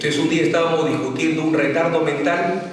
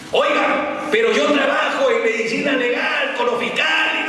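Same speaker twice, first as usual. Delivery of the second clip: higher, offended objection; higher-pitched huffy reply; indignant protest; 6 semitones higher than usual. Retold or imitated. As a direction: insist on your credentials, put out.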